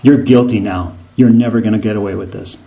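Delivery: low, fast accusing voice; Satan condemning after the sin, low and rapid. Acted. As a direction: condemn them quickly. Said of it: "he says".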